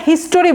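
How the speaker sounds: হিস্টোরি with a full "o": "his-to-ree"; wrong pronunciation. Shown as a demonstration. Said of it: "এটা খুব ভুল বলে".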